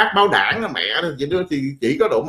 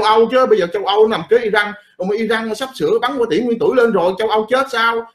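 hammed-up panic, pitch climbing higher as it goes; mock alarmed outcry; 5 semitones higher than usual. America pretending to fear Iran, mock alarmed higher outcry. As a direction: cry out in fake fear about the missiles. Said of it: "Mỹ la lên".

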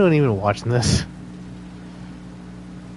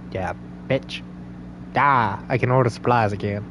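put-on Southern accent character; 3 dB quieter than usual. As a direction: play a hunter with a Southern accent. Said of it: "go into actual character here".

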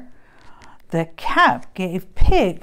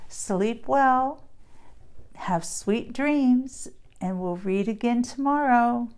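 gentle goodnight; 2 semitones higher, 5 dB quieter than usual. Real, not acted. Reader saying goodnight to the child, soft tender voice. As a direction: wind down softly for sleep.

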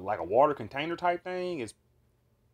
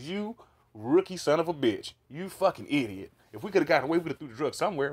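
higher, louder mock chewing-out; acted angry scolding; 4 semitones higher, 5 dB louder than usual. Telling off officer who threw the drugs, acted scolding. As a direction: lay into the rookie in a retold rant.

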